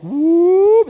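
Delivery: a high, loud little whoop; playful whoop. Retold or imitated. Waiter doing the tall pour, whooping playfully. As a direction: sing it out like a showy waiter. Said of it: "they're like".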